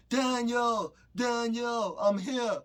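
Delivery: high, loud calling out his name; mom yelling his name. Retold or imitated. Jamaican mom yelling for her son outside the limo. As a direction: call across the street like a Jamaican mom. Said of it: "she's yelling my name loud as hell".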